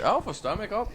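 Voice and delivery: mock incredulous. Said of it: "they're like".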